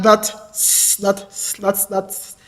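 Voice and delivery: real stutter, stuck on s; repeating the first sound, blocked; stammering. Real, not acted. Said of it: "I may stammer from time to time".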